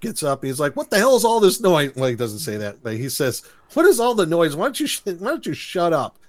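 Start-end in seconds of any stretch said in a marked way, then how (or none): 0.8-1.9 mock irritation. Acting out Eric woken by noise. 3.7-6.2 mock irritation. Acting out Eric complaining about noise.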